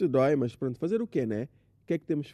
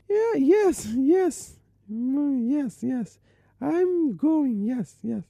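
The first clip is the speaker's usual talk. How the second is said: high, hesitant bluffing uncle; an uncle pretends he speaks English to his nephew; uncle faking English; 7 semitones higher, much slower than usual. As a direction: fumble fake English like a show-off.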